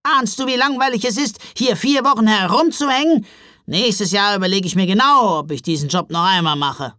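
high, loud, fed-up little elf; aggrieved imp's rant; complaining. A narrator's reading. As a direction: moan at full voice, easing down at the end. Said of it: "beschwerte sich ein Weihnachtswichtel".

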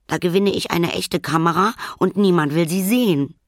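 indignant grumble. Acted. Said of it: "schimpfte Lilly".

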